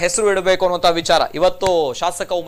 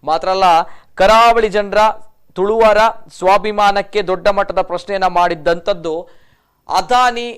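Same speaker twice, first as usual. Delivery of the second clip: steady, emphatic news anchor delivery; news presenting; 4 dB louder than usual. Real, not acted. Anchor tells viewers about the airport naming demand, news presenting. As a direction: present the report in measured, projected phrases.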